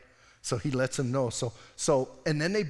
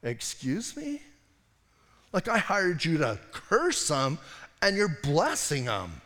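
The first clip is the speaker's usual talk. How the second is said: indignant Balak; slower than usual. Retold or imitated. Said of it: "Balak's going".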